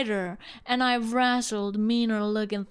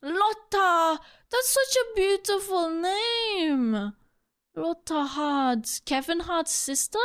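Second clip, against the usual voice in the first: higher, slow, gushing Southern drawl; gushing Southern accent; 7 semitones higher, slower than usual. Acted. Character delights in her own name, Southern accent. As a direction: gush over the name like a Southern belle. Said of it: "I love doing accents".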